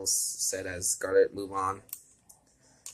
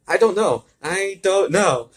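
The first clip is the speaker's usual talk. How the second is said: puzzled villain; 10 semitones higher, 10 dB louder, slower than usual. Acted.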